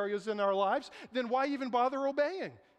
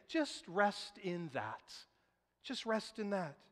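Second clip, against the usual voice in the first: slow tender reassurance; much slower than usual. Acted. Voicing Jesus consoling churches.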